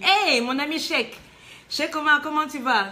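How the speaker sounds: drawn-out, delighted hello; delighted greeting. Real, not acted. Host hailing a childhood friend among the viewers, delighted greeting.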